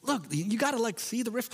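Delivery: high-pitched exasperated guide; imitating a frustrated instructor. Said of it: "he's getting more frustrated with me".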